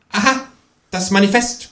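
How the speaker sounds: high, smug precocious aside; know-it-all remark. A narrator's reading. Kangaroo smugly identifies the book, know-it-all. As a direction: say it like a smart-aleck. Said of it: "konstatiert das Känguru altklug".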